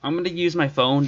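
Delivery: glitchy robot audio; choppy digital voice; robotic voice. Real, not acted. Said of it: "you sound like a robot".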